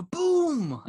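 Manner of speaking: put-on loud, very high kid-style shout; imitated excited kid. Parent mimicking kid watching a bomb go off, high gleeful yell. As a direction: mimic a child yelling along with the explosion. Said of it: "like, he'd always go".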